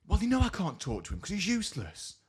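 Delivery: high-pitched exasperated mock rant; going off. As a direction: imitate a woman losing it on the phone. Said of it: "So it's going off".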